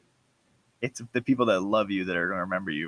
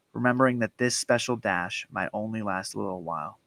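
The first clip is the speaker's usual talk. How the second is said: measured, lightly performed poem reading; poem recitation. Acted. Podcast host reads a favorite poem to close the show, recited. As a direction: read the verse aloud in even, rhyming phrases.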